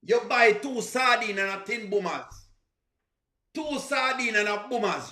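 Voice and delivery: "sardine" in easy native Jamaican; unforced Jamaican "sardine" and "boomers"; Jamaican pronunciation. Shown as a demonstration. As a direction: run "two sardine" together naturally in Jamaican. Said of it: "You hear how different it sound".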